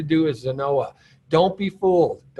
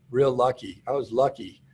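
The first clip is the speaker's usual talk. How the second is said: sarcastic mockery; 4 semitones lower, 4 dB quieter than usual. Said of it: "some people are gonna say you were lucky".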